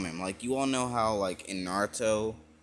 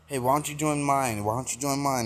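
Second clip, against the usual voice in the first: higher-pitched, repeated pushy invitation; annoying pestering; 5 semitones higher than usual. Retold or imitated. Gods crowd the newcomer to recruit him, annoyingly pestering. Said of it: "they're being annoying".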